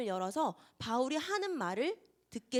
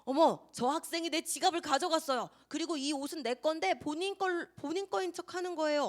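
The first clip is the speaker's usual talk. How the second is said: a mock indignant accusation, pitched up; hammed-up false accuser, raised and a bit louder; lying drunk accuser; 5 semitones higher, 4 dB louder than usual. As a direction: play the drunk woman falsely crying thief. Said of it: "뭐라고 말하냐면".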